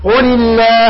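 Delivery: "الله" with thin, front "llaah"; light lam. Shown as a demonstration. Teacher shows tongue shape, thin lam in "الله". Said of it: "هاي المرققة".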